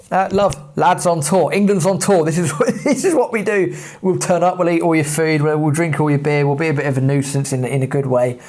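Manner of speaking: lads on tour. Retold or imitated. Mock boastful England lads chant.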